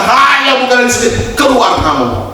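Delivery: high, fast, shooing out; hammed-up order to leave; mock harsh dismissal. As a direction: play a bigot preacher. Mock exclusionary sermon.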